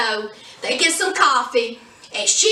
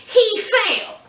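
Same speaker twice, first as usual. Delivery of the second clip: veiled threat; 4 semitones higher, slower than usual. Retold or imitated. Mary Louise warning Madeline.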